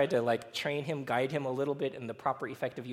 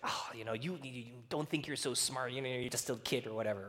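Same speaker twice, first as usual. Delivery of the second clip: understated, muttered put-down; sarcastic; 5 dB quieter than usual. Retold or imitated. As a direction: imitate a tired parent's dismissive jab. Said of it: "I get sarcastic at our child".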